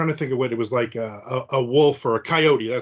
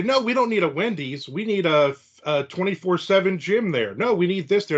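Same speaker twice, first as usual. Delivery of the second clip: higher, whiny demanding neighbours; mock neighbour demands; 5 semitones higher than usual. Mocking locals who argue over a new Wendy's, mock whiny. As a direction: voice the locals insisting on their pet business. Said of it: "everybody will say".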